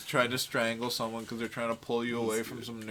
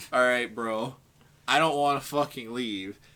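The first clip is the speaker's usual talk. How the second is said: mock irritated, angry, fed-up tone; 3 dB louder than usual. Retelling his reply when a friend insisted they leave the place, retelling angry words. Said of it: "I I I got angry at him".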